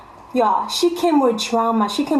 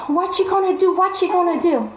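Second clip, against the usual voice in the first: mock taunt; 5 semitones higher than usual. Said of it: "I'm like".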